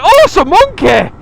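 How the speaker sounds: high, loud imitation of a Leeds bloke's delight; a hammed-up Leeds accent, all excitement. Imitating the Leeds bloke at the petrol station, loud Leeds accent. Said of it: "Obviously, he's from Leeds".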